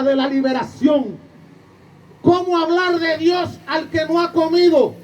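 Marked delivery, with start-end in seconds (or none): 2.2-4.9 slow, ringing rhetorical cry, pitched higher; impassioned outcry. Real, not acted. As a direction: call it out slowly like a preacher's challenge. Priest's impassioned rhetorical question.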